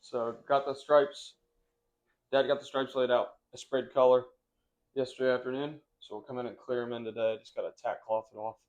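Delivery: numb mouth after dental work. Real, not acted. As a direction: talk through a numb mouth. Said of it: "Half of his face is numb".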